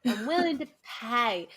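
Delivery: mock Cockney flower girl; bad Cockney accent. Flower girl offering money for her lessons, bad Cockney. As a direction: echo it in a hammed Cockney accent. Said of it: "it's a bad Cockney accent".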